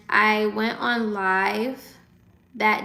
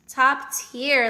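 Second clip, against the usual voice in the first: louder emphatic top tier; 3 semitones higher, 4 dB louder than usual. Real, not acted. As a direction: say it out boldly. Repeats the phrase loud.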